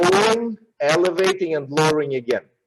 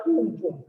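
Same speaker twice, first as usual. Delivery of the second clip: longer beat noises; 4 semitones higher, 3 dB quieter than usual. Shown as a demonstration. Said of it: "just a little more time".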